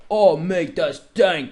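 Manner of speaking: a knowing stoner's approval; impressed stoner friend. Retold or imitated. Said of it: "Aaron looks and goes".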